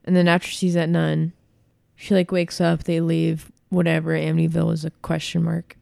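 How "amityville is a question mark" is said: voice glitch. Real, not acted. Podcaster's voice acts up while recapping the movie, voice glitch. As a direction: voice briefly catching, real. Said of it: "Don't know what was happening to my voice there".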